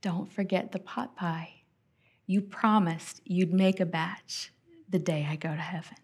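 soft, gentle plea; hushed reminder. Retold or imitated. Grandmother reminds granddaughter of pot pie promise, hushed. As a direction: quietly remind them of a promise. Dying grandmother's last request, retold.

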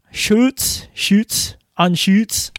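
Schutz tried as SHOOTS with a long u; umlaut attempt. Shown as a demonstration. Host puzzling over how to say the umlaut in Anschutz. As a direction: try Anschutz with a careful long u. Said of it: "how do you pronounce the U with the umlaut".

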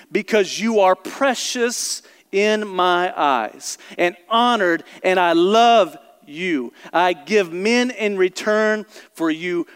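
slow, deliberate reading of scripture. Shown as a demonstration. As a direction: read each phrase slowly and solemnly. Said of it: "I'm gonna read this really slowly".

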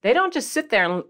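usual speaking voice

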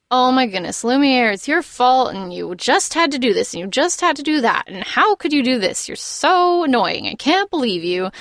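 lightly imitated fussy scolding; a touch of put-on exasperated nagging; nagging rant. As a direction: run on in mock exasperation. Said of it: "he's going on and on".

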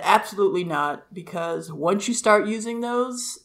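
imitating mom's very proper English accent; lightly put-on proper English refusal. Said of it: "her very proper English accent".

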